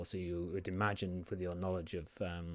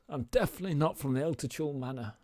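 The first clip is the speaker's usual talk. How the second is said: lightly put-on higher voice; bad fake voice; 7 semitones higher, 5 dB louder, faster than usual. Aldred bluffing the desk guard in a bad fake voice. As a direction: still faking the innocent visitor. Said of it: "in some really bad fake voice".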